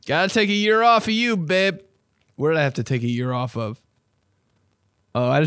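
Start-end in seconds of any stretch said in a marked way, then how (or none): 0.1-1.8 higher, teasing breakup voice; breaking up with a lover, sweetly; mock breakup.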